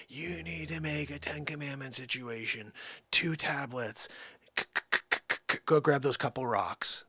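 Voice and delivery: a hint of a talking burning bush. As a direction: hand down orders as a bush, mildly put-on. Burning bush voiced giving orders.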